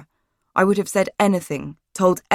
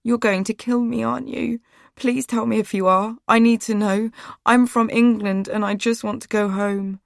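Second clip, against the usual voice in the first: higher, desperate begging; frightened pleading; 5 semitones higher than usual. A narrator's reading. Captive girl begging the woman not to kill her, frightened. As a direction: plead for your life.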